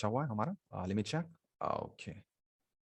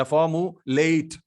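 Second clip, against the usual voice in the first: फॉर्मुलेट slow and louder, with the stress on the final syllable; another wrong stress; 3 semitones higher, 4 dB louder, much slower than usual. Shown as a demonstration. Teacher shows a second wrong stress. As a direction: lean hard on the end of फॉर्मुलेट. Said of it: "ऐसा भी नहीं बोल सकते आप".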